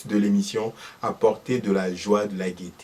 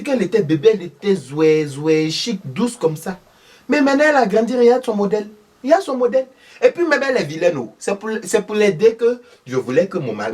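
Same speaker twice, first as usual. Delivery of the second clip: voix aiguë et forte de vieille dame indignée; belle-mère accusatrice; 6 semitones higher, 3 dB louder, faster than usual. Acted. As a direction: une belle-mère qui dénonce une sorcière. Thérèse dénigre Akissi. (Thérèse accuse Akissi, voix aiguë indignée)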